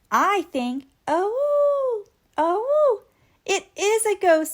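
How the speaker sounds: high, loud panicky cry; scared boy crying out in the dark; frightened. Acted. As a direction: gasp it out in fright. Scared boy hears howling.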